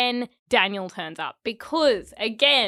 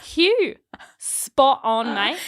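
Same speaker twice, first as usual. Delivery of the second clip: excited; 4 semitones higher, 5 dB louder, much slower than usual. Real, not acted. Cheering Hugh's line.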